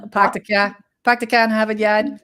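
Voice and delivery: put-on dropped-R Boston accent, "Park the car" as "Pahk the cah"; a mild, playful Boston accent. Showing off a Boston accent to her co-host, lightly joking.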